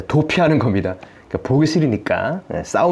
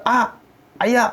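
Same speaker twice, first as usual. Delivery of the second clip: high-pitched pretend "ouch"; mock pained cry; 9 semitones higher, slower than usual. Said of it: "하고 소리를 지를 거 아닙니까".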